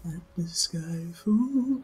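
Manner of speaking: slow, rough smoky voice; smoker's rasp. Pretend. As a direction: sing it slow and raspy like a singer. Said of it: "I think I have the voice for that right now".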